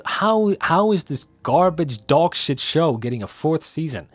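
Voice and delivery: groaning outrage, stretched out; disgusted disbelief. Real, not acted. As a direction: scoff at the screen in disbelief. Reacting to fourth season announcement.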